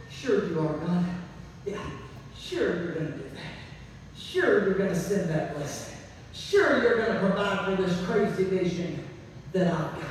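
low, scoffing sarcasm; sarcastic. Acted. Doubting believer scoffing at God's promise, sarcastic. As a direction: mutter it like you don't believe a word. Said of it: "sarcastically said".

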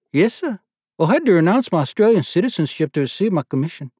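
put-on lieutenant answers the board in Australian accent. A narrator's reading. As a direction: answer crisply with Australian vowels. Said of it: "Jiff's accent had a startling effect".

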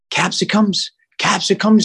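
high-pitched baffled echo of the sandwich maker; puzzled retelling. Retold or imitated. Footballer mimics Subway worker querying his word for peppers, puzzled. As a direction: repeat it high, as if mildly affronted.

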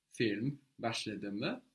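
Film başladı mı said slowly, rising on mı; slow teaching model. Shown as a demonstration. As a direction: spell it out slowly for the learner. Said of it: "You can show in Turkish which part".

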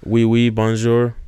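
mock French accent. Shown as a demonstration. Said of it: "what is a French accent".

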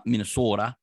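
Minnesota accent with a long, pure O in "Minnesota". Shown as a demonstration. Host tries out a regional accent for co-host, Minnesota accent. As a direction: say "Minnesota" with rounded Minnesotan vowels. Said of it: "my best stab at Minnesota accent".

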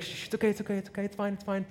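soft, hushed soothing; calm a panicking girl gently; hushing reassurance. Retold or imitated. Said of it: "He's like".

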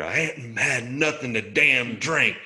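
loud slow yell through laughter; mock scream. Teen yelling into EMT's ear, laughing mock scream. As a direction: shout it into his ear, laughing. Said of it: "I screamed in his ear".

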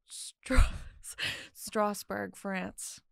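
dramatic story opening; storytelling voice. Acted. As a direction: narrate it like a dark tale. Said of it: "I put on my storytelling voice".

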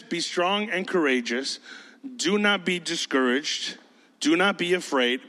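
measured, reassuring command; slow, controlled encouragement without shouting; not yelling. Acted. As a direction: speak firmly but gently. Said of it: "He's not yelling at you".

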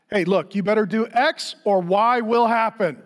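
mild imitated warning tone; mock threatening. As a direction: lightly act out a threat to scare someone. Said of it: "the voice goes up".

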